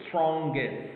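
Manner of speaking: "strongest" as long strong plus short gest; two syllables. Shown as a demonstration. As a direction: model "strongest" in two clear beats. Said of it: "We got only two syllables".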